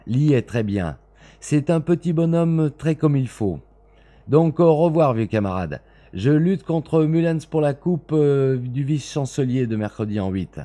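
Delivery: breezy chat with a friend; cheerful young student. Acted. Narrator voices Hastie's chat. (voix d'étudiant enjoué)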